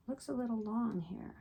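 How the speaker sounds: whispered to herself. Real, not acted. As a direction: whisper it under your breath. Muttering to herself while measuring.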